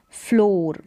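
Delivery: फ्लोर said with an "o" vowel, "flor"; model pronunciation. Shown as a demonstration. Teacher telling pupils how to read it, फ्लोर with long o. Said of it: "इसको पढ़ेंगे".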